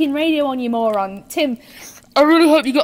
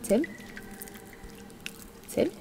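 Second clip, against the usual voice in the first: usual speaking voice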